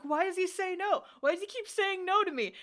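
imitating a sulky bandmate; whiny frustrated boy. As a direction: pout it like a rejected teen. Voicing frustrated character in recap.

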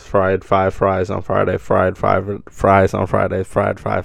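even, chant-like repeats, run together; repeated tongue twister. Shown as a demonstration. Taking on the five-times challenge, repeated tongue twister. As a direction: keep the repeats rolling without a break. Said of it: "Five times".

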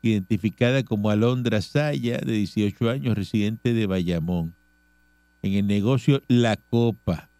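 measured radio news reading. Real, not acted. Host reading charges to the audience, news read. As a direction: read out the police report evenly.

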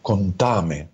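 slow, hammed-up sympathy; mock dramatic therapist. Psychologist parodies a dramatic therapist, slow mock sympathy. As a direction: drag out the fake concern. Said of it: "esa es la terapia dramática".

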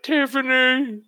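Tiffany drawn out slowly, pitched high, broad Australian; stronger Australian accent. Shown as a demonstration. Correcting the first try at Barbara's voice, a broad Australian accent. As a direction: stretch Tiffany out high and slow, full Australian. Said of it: "It sounds even more Australian".

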